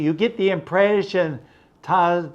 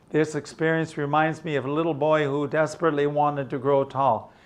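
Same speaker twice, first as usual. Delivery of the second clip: fast, quieter run-through; quicker reread; 4 dB quieter, faster than usual. Shown as a demonstration. Teacher rereading the sentence for students, quicker. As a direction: rattle it off once more.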